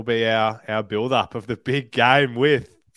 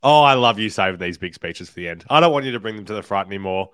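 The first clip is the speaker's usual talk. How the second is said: loud teasing; 7 dB louder than usual. Real, not acted. Co-host teases the big speech.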